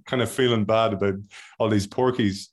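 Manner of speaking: usual speaking voice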